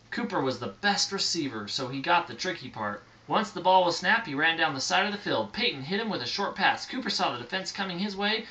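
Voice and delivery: storybook read aloud; reading to children. A narrator's reading. Parent reading a bedtime story to a child, storybook voice. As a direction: read it gently to a little listener.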